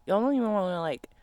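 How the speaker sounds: ordinary delivery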